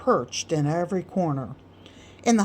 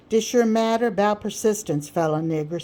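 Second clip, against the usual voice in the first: a touch higher, grand opening; orator Sam; 3 semitones higher than usual. Acted. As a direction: launch into a true subject. Sam begins a new subject.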